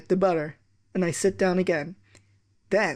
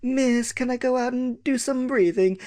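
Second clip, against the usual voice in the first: put-on whiny kid; 6 semitones higher than usual. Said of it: "The whiny ones".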